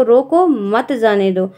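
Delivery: रोको set apart, मत जाने दो together; comma after रोको. Shown as a demonstration. Someone orders a man stopped, pause after रोको. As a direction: break after रोको, then forbid with मत जाने दो. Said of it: "उसके हिसाब से पढ़ना होगा".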